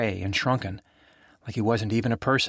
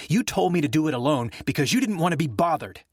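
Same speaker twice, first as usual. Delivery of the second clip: bitter accusation; 6 semitones higher than usual. Acted. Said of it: "Jay spit at him".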